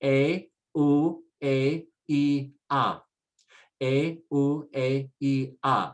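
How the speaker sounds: A, U, A, E, A as separate sounds, eh, oo, eh, ee, ah; isolated vowels. Shown as a demonstration. Teacher does just the vowels first, isolated vowels. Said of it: "let's do just the vowels".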